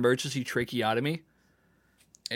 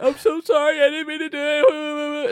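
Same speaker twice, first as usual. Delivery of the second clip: put-on old lady apology; 14 semitones higher, 4 dB louder than usual. Old lady who bumped another with a cart, high apology. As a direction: play a flustered old lady saying sorry. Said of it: "the lady was like".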